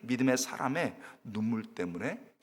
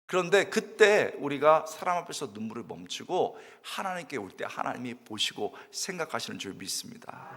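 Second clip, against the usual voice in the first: normal talking voice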